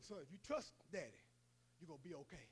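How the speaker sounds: calm him gently; soft comforting father; hushed reassurance. Retold or imitated.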